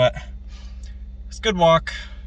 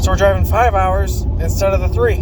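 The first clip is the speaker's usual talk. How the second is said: loud; 6 dB louder than usual. Real, not acted. Talking over loud car noise.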